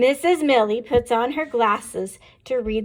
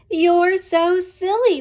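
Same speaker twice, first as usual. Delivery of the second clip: put-on high, slow, louder kids' call; mock cry out; 8 semitones higher, 6 dB louder, slower than usual. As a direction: call it out laughing at teacher. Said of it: "we cry".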